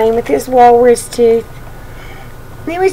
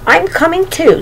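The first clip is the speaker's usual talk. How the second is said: little brother voice; 8 semitones higher than usual. Acted. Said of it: "said Monty".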